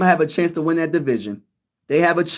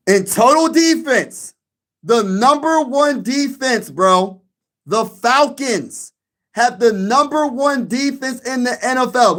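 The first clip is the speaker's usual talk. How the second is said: dramatic reveal; 5 semitones higher, slower than usual. Real, not acted.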